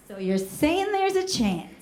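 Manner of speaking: lightly voiced voice in the head; little inner voice. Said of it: "this little voice that just goes".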